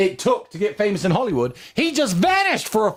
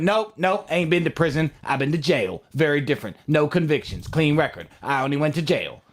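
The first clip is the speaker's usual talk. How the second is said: imitating Cat Williams; 6 semitones lower than usual. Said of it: "Sorry if I butchered your accent there".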